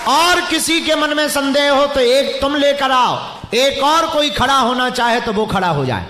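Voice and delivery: open challenge. Real, not acted. Preacher dares any doubter to stand, challenging. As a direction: throw a challenge out to the stadium.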